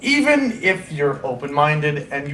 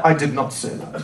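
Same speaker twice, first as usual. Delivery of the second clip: put-on low, softer denial in German accent; 5 semitones lower, 5 dB quieter than usual. BBF denies his slip, low German accent. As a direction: imitate an indignant German denial, lower and quieter. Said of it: "exceptionally thick German accent".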